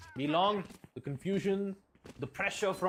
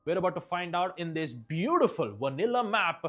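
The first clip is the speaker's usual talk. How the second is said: louder, hyped esports caster intro; match announcer; 2 semitones higher, 4 dB louder than usual. Real, not acted. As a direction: introduce the deciding match with punch.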